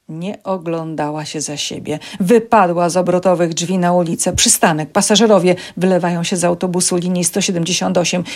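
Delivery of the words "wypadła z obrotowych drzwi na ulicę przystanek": plain reading voice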